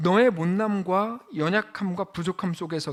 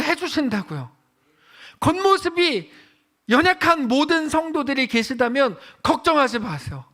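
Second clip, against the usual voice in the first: fiery preaching; 8 semitones higher, 5 dB louder than usual. Acted. Pastor preaching loudly on God's word.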